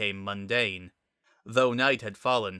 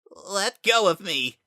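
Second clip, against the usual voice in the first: loud, high command; demanding; 10 semitones higher, 6 dB louder than usual. Acted. Kara ordering Frisk to let go, loud and high. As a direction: shove the words at him.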